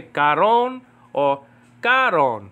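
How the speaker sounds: karon said slowly twice, each with a different syllable stressed; drawn-out karon or karon, comparing the stress; contrasting word stress. Shown as a demonstration. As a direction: offer karon two ways, shifting the emphasis. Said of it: "She puts the emphasis on".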